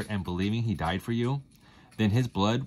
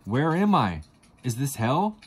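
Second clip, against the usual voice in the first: frightened; 5 semitones higher, 4 dB louder than usual. Acted. Waking up in hell, terrified.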